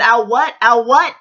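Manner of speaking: challenging, rising repeats; in-your-face retort, acted out; retold confrontation. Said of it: "I was on her face".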